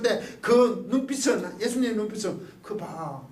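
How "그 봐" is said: much softer, quietly grieving; grieving Jesus. Retold or imitated. Jesus meeting Peter's eyes, softly grieving. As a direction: say it low as a worried master. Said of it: "근심하는 거 아니에요".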